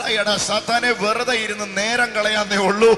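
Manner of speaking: slow, loud rebuke of the devil; defiant shout at Satan. Pretend. Believer told to shout at Satan, loud and slow. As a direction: roar it down at Satan. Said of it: "വായ് തുറന്ന് ഇപ്പൊ തന്നെ വിളിച്ചു പറ".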